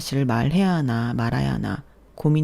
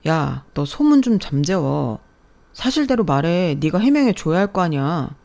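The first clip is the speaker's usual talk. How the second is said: loud ex-husband; 4 dB louder than usual. Acted. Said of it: "계속 큰 소리로 말하더라고요".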